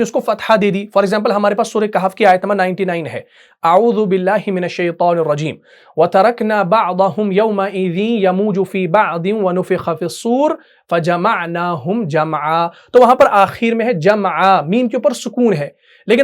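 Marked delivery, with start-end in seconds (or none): 3.6-12.7 slow, chanted Quranic recitation. Acted. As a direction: recite the verse in tajweed style, unhurried. Teacher recites Quran verse.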